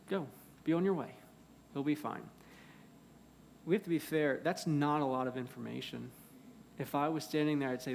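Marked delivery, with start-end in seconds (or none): 0.1-2.3 mildly acted, casual reassurance; calm reassurance. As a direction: send him off with easy assurance. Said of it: "Just calmly, he says".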